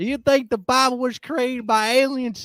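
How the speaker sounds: loud, high, fake Texan accent. Rereading a viewer's question aloud in a put-on Texan accent. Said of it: "a Texan accent".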